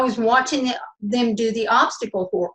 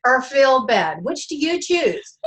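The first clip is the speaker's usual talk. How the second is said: lightly imitated coach, higher and brisk; higher coaching voice, amused at the end; Dana; 4 semitones higher than usual. Client quotes her coach back to her, playful imitation. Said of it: "I heard Dana go".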